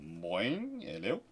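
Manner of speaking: usual speaking voice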